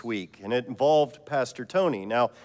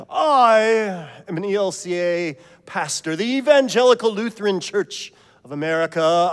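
laughing through it; 2 semitones higher, 4 dB louder than usual. Acted. The preacher voicing Pastor Tony at heaven's gate, chuckling. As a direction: announce your full title, laughing. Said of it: "Tony says".

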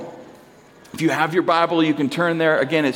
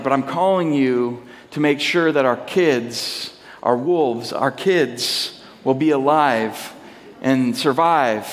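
solemn instruction; 4 semitones lower than usual. Retold or imitated. Wife's solemn warning before leaving.

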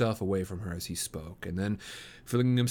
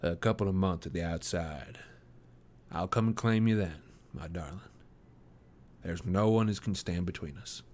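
put-on young man voice; 4 semitones lower, 4 dB quieter than usual. A narrator's reading. Jefferson Hope's voice in the story.

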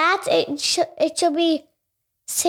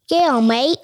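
put-on Australian accent.

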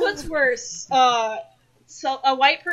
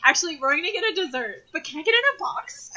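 white customer impression; 5 semitones higher, faster than usual. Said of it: "impression of a white person ordering".

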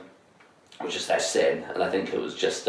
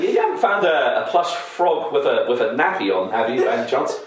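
awkward polite caller; 4 semitones higher than usual. Retold or imitated.

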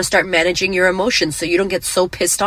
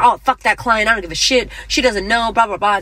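mock dismissive rant; 3 semitones higher than usual. Imitating her own petty reaction to an unhappy client. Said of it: "instead of me being like".

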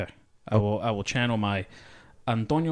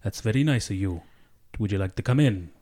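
high, slow host voice that misses the mark; attempted Mexican accent; 6 semitones higher, slower than usual. Actor hosting his white friend, failed Mexican accent. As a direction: play a welcoming Mexican host, badly. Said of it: "I was a Mexican".

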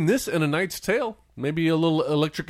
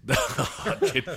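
laughing through the words; 3 semitones higher, much slower than usual. Real, not acted. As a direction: chuckle it out slowly. Laughing repeat of movie line.

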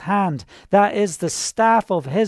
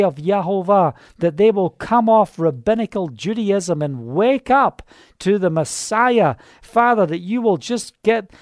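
prayer. Real, not acted. Prays aloud over Israel.

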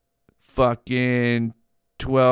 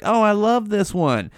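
gushing; 8 semitones higher than usual. Retold or imitated. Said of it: "We might be like".

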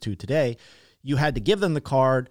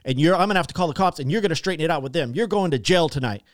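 retold yelling; 2 semitones higher, 3 dB louder than usual. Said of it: "He was fucking yelling at me again too".

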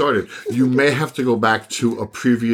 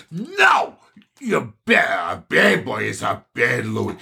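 scolding the dog; 2 semitones lower, slower than usual. Retold or imitated. Owner scolds the dog Louis.

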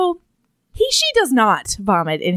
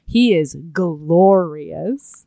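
slow, lovestruck sigh; dreamy swoon; 3 semitones lower, much slower than usual. Retold or imitated. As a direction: savor every word, smitten. Swooning over his smile.

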